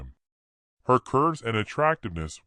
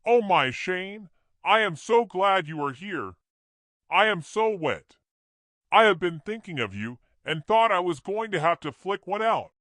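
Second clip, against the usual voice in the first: seductive woman; 9 semitones higher than usual. A narrator's reading. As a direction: purr it out to tempt him. Seductive woman greets Shane.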